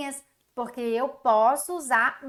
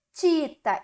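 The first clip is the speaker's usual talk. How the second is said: playful wrong version; 4 semitones higher, 3 dB louder than usual. Shown as a demonstration. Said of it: "é tim".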